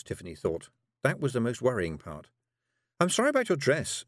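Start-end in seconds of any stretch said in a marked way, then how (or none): 3.0-4.0 put-on higher, earnest girl; young girl voice. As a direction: say it like a polite girl. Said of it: "she added".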